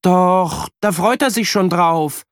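put-on high child voice, eager; bright little boy; boy answering. A narrator's reading. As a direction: kid insisting. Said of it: "sagt Jan".

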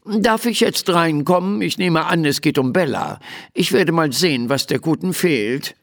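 lightly voiced officious gnome doctor; fussy little doctor, businesslike. Little doctor asks to come in and examine Bella, officious.

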